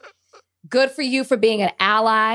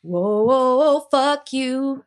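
mock blowup, laughing; 3 semitones higher, 3 dB louder than usual. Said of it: "You just look over at her and you say".

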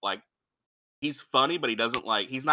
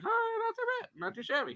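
mock impressed; 10 dB quieter than usual. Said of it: "and it's like".

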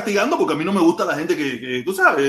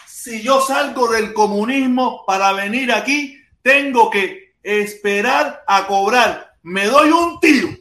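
slow quoted read; slower than usual. Retold or imitated. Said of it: "Lo dijo Luis Soler".

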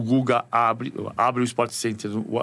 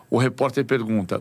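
ordinary talk

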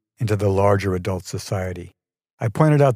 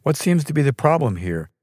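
raised pitch, firm and controlled question; firm but measured; 5 semitones higher than usual. A narrator's reading. Vice president stepping into a reception quarrel, firm but measured. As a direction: ask firmly, keeping the tone measured. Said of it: "he asked firmly, but in a measured tone".

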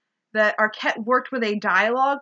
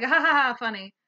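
sarcastic fake laugh; 3 semitones higher, faster than usual. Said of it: "it's like".

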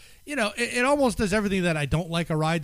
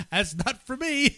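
mock timid; 7 semitones higher than usual.

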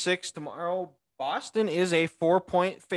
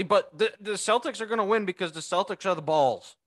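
put-on Midwest accent; 3 semitones higher than usual. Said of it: "In my, my Midwest accent".

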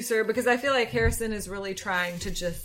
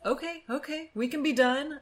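placating; 6 semitones higher than usual. Retold or imitated. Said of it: "Harrison says".

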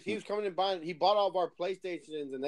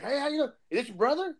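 friendly high voice; 9 semitones higher, 4 dB louder than usual. Retold or imitated. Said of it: "And he's like".

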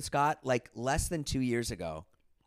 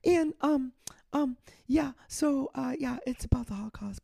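put-on much higher, louder kid voice; offhand teenager, rambling; imitating teen son; 4 dB louder than usual. Father imitating his son explaining the song topic. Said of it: "He's like".

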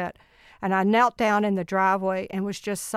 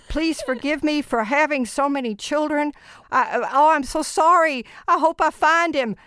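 retold frantic prayer; 6 semitones higher than usual. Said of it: "I was praying out loud".

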